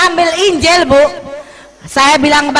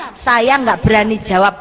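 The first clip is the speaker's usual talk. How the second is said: usual speaking voice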